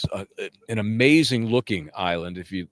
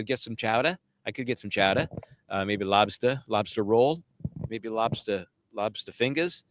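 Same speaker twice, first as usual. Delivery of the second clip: mock New England accent. Puts on local accent for food words.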